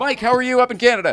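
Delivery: high-pitched, loud, yelling call. Calling out to mike up in canada, shouting. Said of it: "Sorry, I'm shouting".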